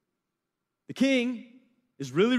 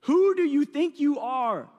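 outraged king; 4 semitones higher, 4 dB louder than usual. Retold or imitated. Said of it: "the king's like".

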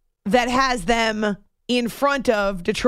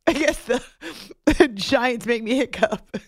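laughing. Real, not acted. Joking through laughter.

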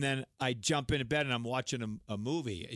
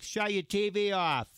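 higher, slow put-on scolding; hammed-up telling-off; mock complaint; 6 semitones higher, 4 dB louder, slower than usual. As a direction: imitate a fed-up motel clerk. Imitates budget motel complaint call.

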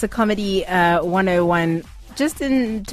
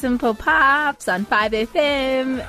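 slow, upbeat DJ intro; radio DJ voice; 5 semitones higher, slower than usual. Shown as a demonstration. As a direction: announce it like a radio DJ. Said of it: "as we come out of the song and you wanna speak, you say".

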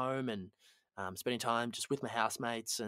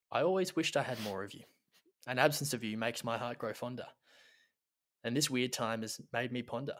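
mock-solemn poem reading. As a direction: read it like a heartfelt eulogy. Reads a mock love poem.

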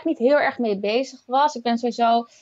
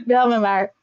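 laughing; 4 dB louder, slower than usual. Real, not acted. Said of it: "laughing at surrogacy question".

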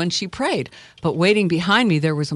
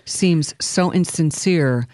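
lyrics recitation; 2 semitones lower than usual. Acted. Reads out song lyrics.

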